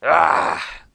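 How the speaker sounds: loud exasperated groan; dwarf groan. A narrator's reading. Dwarf groaning about Groose, exasperated. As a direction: groan out of frustration. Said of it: "the dwarf groaned".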